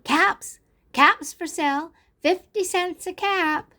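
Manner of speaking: high, chanted sales cry; peddler's street call. A narrator's reading. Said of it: "he walked back into town calling".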